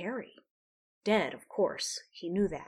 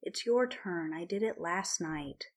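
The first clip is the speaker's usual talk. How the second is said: sleepy, muffled under covers; muffled mumble. Acted. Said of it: "her voice muffled under the covers".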